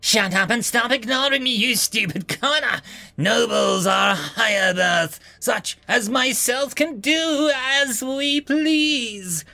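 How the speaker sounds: high, slow, shouting noble; entitled. Acted. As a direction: bark down at the commoner. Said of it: "voice dripped with entitlement".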